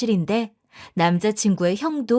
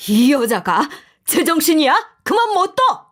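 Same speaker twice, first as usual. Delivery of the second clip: louder, rising stern roar; roaring father-in-law; 4 semitones higher, 4 dB louder than usual. A narrator's reading. Father-in-law roaring at his wife, stern roar. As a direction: bellow to stop her. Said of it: "엄청나게 큰 소리로 고함을 치셨죠".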